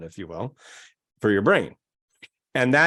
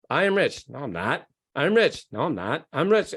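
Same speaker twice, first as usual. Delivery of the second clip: mock argument. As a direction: act out the brain arguing back. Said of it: "bash up against your own belief system".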